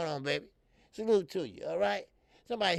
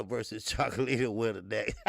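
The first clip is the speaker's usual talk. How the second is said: laughing through the words; 3 semitones lower than usual. Real, not acted. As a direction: chuckle while naming the matchup. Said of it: "I'm laughing at that".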